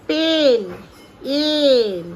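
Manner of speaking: পেন then এন, each said loud and apart; sounding out. Shown as a demonstration. Mother teaching her daughter the sound in পেন, loud and slow. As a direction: split পেন into its sounds, stressing এন. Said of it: "গুলিয়ে ফেলছো sound আর letter".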